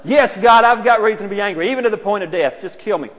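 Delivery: hammed-up angry shout; mock shout. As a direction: bellow it back at God in a huff. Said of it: "That's what John".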